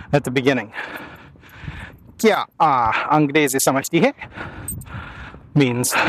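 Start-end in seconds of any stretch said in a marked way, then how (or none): 2.2-4.1 "hai" rising at the end; Hindi question tune. Shown as a demonstration. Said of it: "Wanna make it a question".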